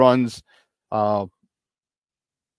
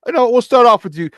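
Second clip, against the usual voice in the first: put-on Chicago accent; 10 semitones higher, 8 dB louder than usual. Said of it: "my Chicago accent".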